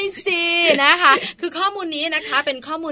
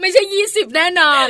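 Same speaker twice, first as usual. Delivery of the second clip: laughing; 6 semitones higher, 8 dB louder than usual. Real, not acted. Joking about their age.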